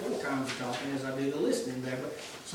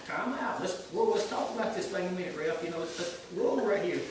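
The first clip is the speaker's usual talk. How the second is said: loud, high mock holler of time out; playfully calling time out on the field; imitating Brother Rick; 4 semitones higher, 6 dB louder than usual. A softball teammate hollering time out, loud and higher. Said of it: "he'll holler time out".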